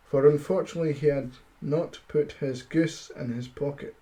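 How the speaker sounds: steady storybook reading voice; story narration. A narrator's reading. Streamer reading a fairy tale to his chat, storybook narration. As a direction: read the fairy tale aloud to listeners.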